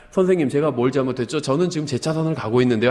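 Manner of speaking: mildly softened polite question; calm and courteous, lightly acted; gentle polite. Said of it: "부드럽게 얘기하니까". (경찰이 욕하는 운전자에게 건네는 부드러운 말투)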